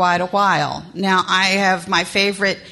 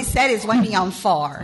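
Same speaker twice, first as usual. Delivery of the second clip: put-on Southern accent. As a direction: repeat it in a Southern twang. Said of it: "That is a Southern accent right there".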